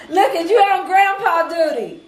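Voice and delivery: teasing line through a laugh; laughing tease. Real, not acted. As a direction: laugh while you tease him. Host teasing guest, laughing.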